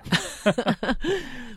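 giddy high laugh; excited laugh. Real, not acted. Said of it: "今天太激动了".

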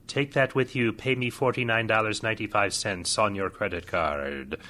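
hammed-up mystic seer voice; lightly voiced fortune teller. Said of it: "bad acting like that".

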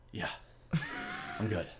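groggy, faint mock fighter; just woke up. Dazed fighter answers the ref, groggy. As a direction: play a boxer barely back from a knockdown. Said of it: "looks like he just woke up".

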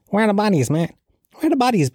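high-pitched mock-indignant demand; conspiracy theorist type. Conspiracy type demanding the bodies, mock outrage. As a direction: mimic a worked-up conspiracy protester, voice pitched right up. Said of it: "one of these Gemma O'Doherty types".

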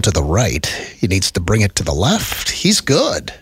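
hushed golf-style commentary; announcer voice. Pretend. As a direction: narrate the oil change like sport. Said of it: "use our announcer voices".

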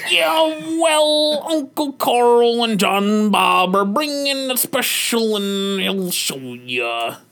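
yelling dad. Acted. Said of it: "yell at his son".

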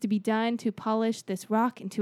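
grand speech. Acted. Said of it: "Was this an Obama speech?".

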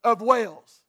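slow, loud, each word planted; insistent declaration. Acted. The ragged boy insisting to the officer, slow and loud. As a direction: insist on who you are. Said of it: "the same response come back".

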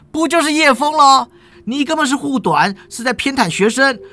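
high, fast aggrieved whine; shrill-free but high, quick sulky protest; whiny substitute teacher. Acted. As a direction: pitch it way up and rush the complaint like a wronged hourly lecturer. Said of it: "代课老师就说了".

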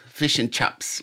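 lighter New Zealand accent repeat, chips as chops. Shown as a demonstration. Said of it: "like they say".

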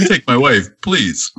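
lightly voiced comic one-liner; a hint of an old stand-up delivering a punchline; quick nod to a classic stand-up bit, barely voiced; Rodney Dangerfield. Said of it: "you started sounding like Rodney Dangerfield".

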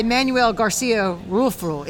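slow, put-on Spanish accent on the name. Real, not acted. Podcaster naming an actor to the co-host, in a Spanish accent. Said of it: "I don't know why I'm using a, his Spanish accent".

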